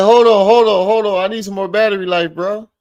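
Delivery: high, mock pleading excuse; mocking imitation.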